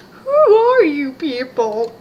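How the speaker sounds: shouting. Acted. Character shouting in alarm.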